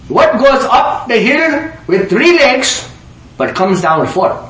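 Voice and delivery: high, slow put-on riddle voice; riddling passenger. Indian passenger posing his riddle to Einstein, put-on voice. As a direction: pitch it up and draw out the riddle.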